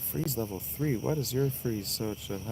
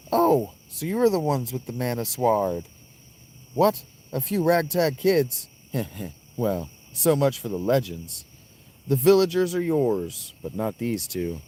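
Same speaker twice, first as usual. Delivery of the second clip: louder, hammy villain voice; slow theatrical villain menace; 4 semitones higher, 5 dB louder than usual. Acted. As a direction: loom over the heroes, gloating. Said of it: "in the voice of Thanatos".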